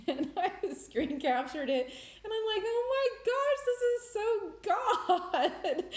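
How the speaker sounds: high, laughing squeal of amazement; excited. Real, not acted. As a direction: squeal it loud, bursting into laughter. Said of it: "that was exciting".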